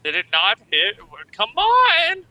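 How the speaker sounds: shrill, loud urging cry; high frustrated shout. Real, not acted. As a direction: yell it at the dice. Player urging an attack.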